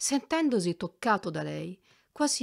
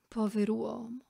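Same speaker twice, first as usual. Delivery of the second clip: kindly pity; 5 semitones higher than usual. A narrator's reading. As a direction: sigh it out with kind sympathy. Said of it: "con un'espressione di benevola pietà".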